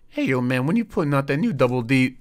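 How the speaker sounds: high, loud, put-on fan voice; pestering fan. Fan at the door demands new episodes, hollering. Acted fans pestering him.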